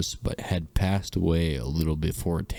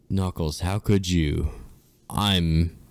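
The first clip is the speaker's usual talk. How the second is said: mock whine; 3 dB louder, slower than usual. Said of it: "Sonic mocked, whined".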